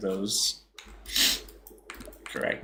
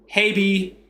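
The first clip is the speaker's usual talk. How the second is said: "habe" as HAY-bee in Texan, pitched up; Texas accent; 7 semitones higher than usual. Shown as a demonstration. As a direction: finish in an exaggerated Texas twang. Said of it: "I'll put, like, a Texas accent on".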